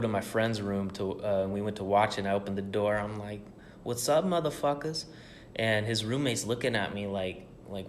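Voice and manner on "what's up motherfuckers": rowdy greeting. Retold or imitated. Barging into his friend's room, a high rowdy hello. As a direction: burst in hyped and shout a hello.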